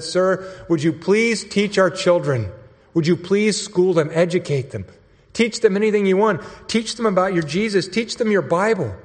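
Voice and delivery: mild imitation of a desperate, begging father; tearful plea. Tribal leader begging for his people's children to be taught, mildly imploring. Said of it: "he was weeping his eyes out".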